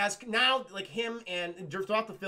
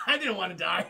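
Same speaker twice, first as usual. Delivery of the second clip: laughing denial; 3 dB louder than usual. Retold or imitated. Laughing shout.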